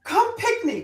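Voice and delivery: high-pitched imitated Jamaican call; Jamaican aunt. Aunt urges the children along, Jamaican accent. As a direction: call the kids in Jamaican patois. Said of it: "which is a word for kids".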